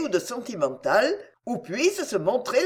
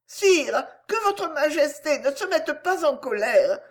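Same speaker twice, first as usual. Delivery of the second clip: timid gentle lamb; 6 semitones higher than usual. A narrator's reading. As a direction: plead meekly like a small lamb. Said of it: "d'un air timide et doux, en vrai agneau".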